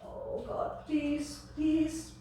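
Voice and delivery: whispered start rising to a high, drawn-out plea; desperate pleading. Acted. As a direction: beg like a terrified child. Child begging as the summons comes.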